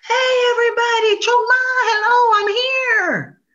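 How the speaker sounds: high, loud showy greeting; grand entrance. Acted. Possum arriving at the dance ground, high and loud hello. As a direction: announce yourself to everyone.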